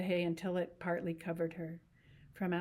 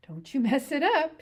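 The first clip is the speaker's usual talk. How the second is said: higher, louder sharp warning; Curly's wife warning; 8 semitones higher, 10 dB louder than usual. Acted. Curly's wife to Lenny, louder sharp warning. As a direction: warn him off her hair.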